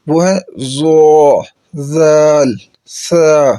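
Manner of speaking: زو ذال سا said soft, no whistle; teacher demonstrating soft letters; soft letters demo. Shown as a demonstration. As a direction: soften زو, ذال and سا without hiss. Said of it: "ان کو ہر حال میں نرم کر کے پڑھنا ہے".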